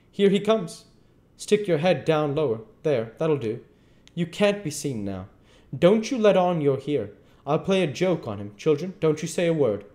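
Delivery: high, urgent conspiring aunt voice, well above the narrator; a fussing farm wife hiding the boy, pitched high; Aunt Sally. Acted. Aunt Sally hides Huck from her husband, high and urgent.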